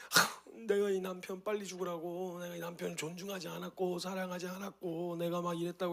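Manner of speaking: put-on understated weeping voice of a repenting elderly deaconess; tearful repentance. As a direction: gently imitate an old woman weeping as she repents. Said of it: "눈가에서 눈물이 이렇게 쭉 흐르시면서".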